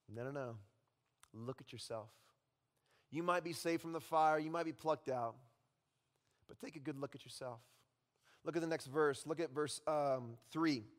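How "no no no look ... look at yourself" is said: Satan's accusation. Acted. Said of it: "Satan still says".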